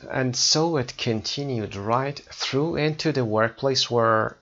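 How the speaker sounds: slow, careful reading-aloud of the English passage; slow text reading. Acted. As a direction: read each phrase slowly and clearly for learners.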